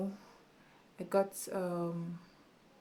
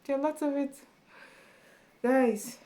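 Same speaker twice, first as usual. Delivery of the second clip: louder, higher outburst; excited burst; 7 semitones higher, 6 dB louder than usual. Real, not acted. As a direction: snap back up with energy. Bursts back loud after whisper.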